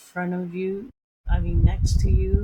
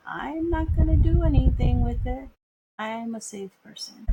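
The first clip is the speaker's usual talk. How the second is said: indignant traveler; 5 semitones higher than usual. Retold or imitated. Traveler defending knife.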